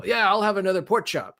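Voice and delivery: lightly voiced dim boyfriend at dinner; mock cheerful boyfriend voice; imitating boyfriend. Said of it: "he would be like".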